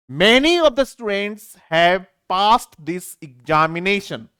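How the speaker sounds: very slow, every word given its space; slow reading aloud. Shown as a demonstration. Teacher reading an exam sentence to students, very slow. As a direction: dictate it slowly. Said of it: "past नहीं बोलेंगे".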